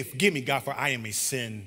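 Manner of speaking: low, soft admission. Shown as a demonstration. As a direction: confess it humbly, letting "sinner" sink. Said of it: "it's a deeper level of transparency".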